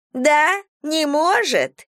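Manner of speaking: high, slow mocking drawl; snide. Vagrant mocks the market seller, snide and high. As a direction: sneer the words back at her. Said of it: "ехидно процедила бродяжка".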